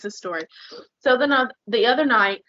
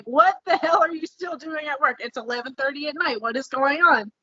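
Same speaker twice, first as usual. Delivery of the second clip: higher-pitched reactive outburst; retold exasperated demand, pitched up; no calm left; 4 semitones higher than usual. Wife calling husband still at work late at night, exasperated. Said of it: "There is no calm left. There is only reactionary".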